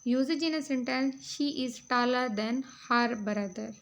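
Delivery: reading out notes, very slow and deliberate; measured classroom read-aloud; slow dictation reading. Acted. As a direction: dictate each phrase slowly for students to copy. Reads example sentence slowly.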